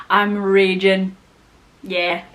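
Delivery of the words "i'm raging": angry. Shown as a demonstration. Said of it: "If you're, like, angry".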